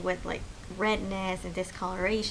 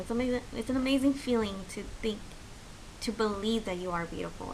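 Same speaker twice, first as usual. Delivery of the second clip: emotional; 2 semitones higher than usual. Real, not acted. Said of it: "I'm getting a little emotional".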